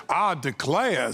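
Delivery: put-on Southern accent. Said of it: "a Southern accent".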